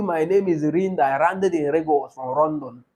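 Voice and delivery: "Rinda", "landed", "Lagos" and "London" with L and R confused; R and L swapped. Acted. Teacher mimics a lady from the east, "London" as "Rondon". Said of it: "The R L factors".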